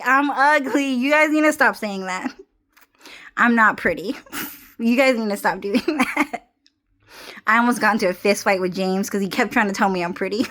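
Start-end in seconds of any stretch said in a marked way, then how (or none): 0.0-6.5 half-laughing mock whine; laughing protest. Telling friends to stop, laughing mock whine. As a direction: whine it while giggling through.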